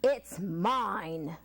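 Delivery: a touch of a low mole groan. Acted. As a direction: groan the claim. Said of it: "groaned the mole".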